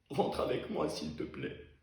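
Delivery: breathy whispered begging; whispered plea. Acted. Begging Eva to come home, whispered. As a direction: beg her in a whisper. Pleading at nightfall.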